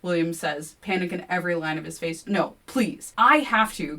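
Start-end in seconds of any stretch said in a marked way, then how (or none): 2.3-4.0 louder shout. A narrator's reading. Kevin shouting at William, louder. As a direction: shout him down. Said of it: "Kevin shouts".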